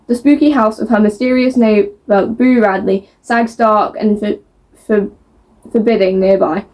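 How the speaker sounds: even, measured book-blurb read. A narrator's reading. Book vlogger reading a blurb to viewers, measured narration. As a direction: read the back cover out to viewers.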